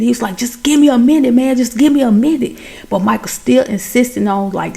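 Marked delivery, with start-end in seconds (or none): 0.4-2.6 retold plea, a bit higher; mildly insistent retort. Chance to Michael outside the door, mildly insistent. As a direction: push back a little, as if being rushed. Retold friend refuses being rushed.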